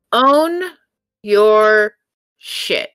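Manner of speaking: each word alone with a pause before it; own, your, and shit spaced out with the last word near-voiceless; emphatic pauses. Real, not acted. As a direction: hammer the mantra word by word. Stating her life mantra.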